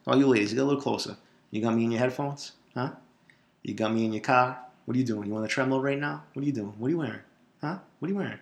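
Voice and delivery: soft, teasing come-on to listeners; cheesy intimate pickup patter, soft; slowed-down seductive. Pretend. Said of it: "let me slow it down a little bit".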